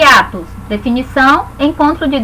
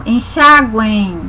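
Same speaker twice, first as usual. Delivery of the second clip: slow demo word; 3 semitones lower, much slower than usual. Shown as a demonstration. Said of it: "é, nasal".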